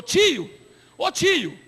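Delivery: a hint of a wheedling young caller; scam caller. Prisoner calling the pastor collect, lightly wheedling.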